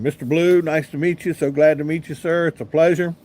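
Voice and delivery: retold polite gushing with lifted endings; eager fan greeting. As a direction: greet your idol politely, a touch starstruck. Gushing fan greeting his hero.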